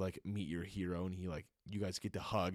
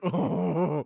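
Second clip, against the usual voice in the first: surprised; 10 semitones higher, 14 dB louder than usual. Retold or imitated. Surprised when Jesus stays silent.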